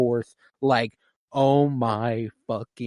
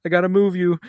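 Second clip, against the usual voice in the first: mimicking desperate father; 6 semitones higher, 5 dB louder, much faster than usual. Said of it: "Joel scene retold".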